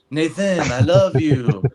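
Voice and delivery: put-on a light Ecuadorian dad accent that comes off like a vampire; impression of dad. Son doing his Ecuadorian dad for his family, light vampire-ish accent. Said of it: "You sound like a vampire".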